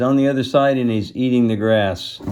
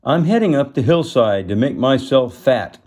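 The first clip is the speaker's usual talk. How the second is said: bleating goat; 5 semitones higher, 5 dB louder than usual. Acted. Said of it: "he kinda bleated it out".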